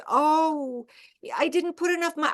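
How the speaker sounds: mother apologizing to her daughter; lightly voiced concerned mother. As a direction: acknowledge the slip gently. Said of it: "And mother goes".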